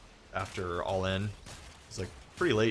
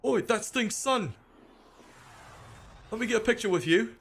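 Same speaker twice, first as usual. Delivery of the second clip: excited fans. Retold or imitated. Streamer imitating fans who spot a singer's son, excited high mock voice. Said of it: "so they're like".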